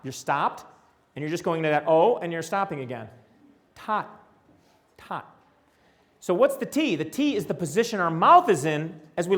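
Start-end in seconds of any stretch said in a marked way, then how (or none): 3.7-5.4 tot said slowly, stop at each end; word demo. Shown as a demonstration. Teacher showing the stops in tot. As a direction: land on the t at start and finish of tot. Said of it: "So you say a word like".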